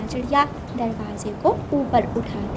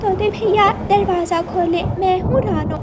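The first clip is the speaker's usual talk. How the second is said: high, raised calls to the parrot; calling at the door; 9 semitones higher, 4 dB louder than usual. Acted. Ranu calling the parrot to open the door. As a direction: call through the closed door, pleading.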